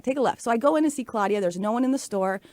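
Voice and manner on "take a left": a higher, firm inner-voice command; inner voice demo. Shown as a demonstration. Showing listeners how her inner voice speaks, a firm command. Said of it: "it does do it just like that".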